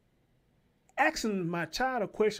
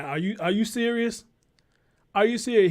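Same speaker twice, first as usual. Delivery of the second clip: 1 outraged disbelief; 6 dB louder than usual. Real, not acted.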